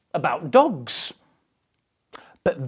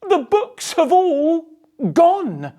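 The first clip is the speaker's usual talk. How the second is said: put-on high, louder child's cry; a boy calling out in alarm, pitched high; Peter crying out; 11 semitones higher, 4 dB louder than usual. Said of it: "cried out Peter".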